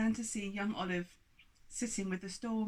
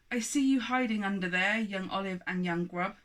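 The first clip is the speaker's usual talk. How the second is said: stern giant calling; 5 dB louder than usual. Acted. Giant calls out hidden children.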